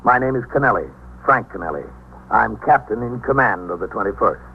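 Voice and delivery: grave narrator; radio narration. A narrator's reading. Captain describing his precinct to listeners, grave. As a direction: speak like a captain telling his beat.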